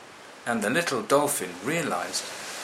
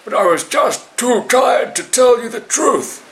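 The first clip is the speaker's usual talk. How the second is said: much higher, louder gasping plea; gasping monkey; 13 semitones higher, 10 dB louder than usual. Acted. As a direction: gasp it out, going under. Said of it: "he gasped".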